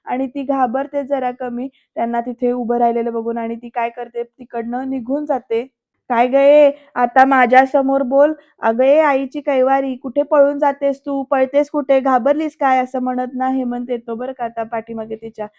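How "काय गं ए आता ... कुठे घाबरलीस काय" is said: loud, slowed-down taunting challenge; raised-voice mock bullying; angry confrontation. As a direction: act out a husband challenging her to answer. Husband confronts his fleeing wife.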